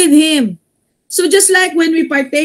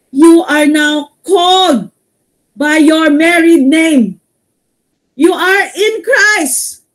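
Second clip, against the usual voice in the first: slow, high, emphatic; slow proclamation; 3 semitones higher, slower than usual. Real, not acted. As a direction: lean hard into each word. Preacher proclaiming married name.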